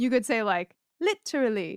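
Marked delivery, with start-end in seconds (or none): 1.0-1.8 literally said in a plain English accent. Showing how someone from England would say 'literally': English accent on 'literally'. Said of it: "if you're from just regular old England".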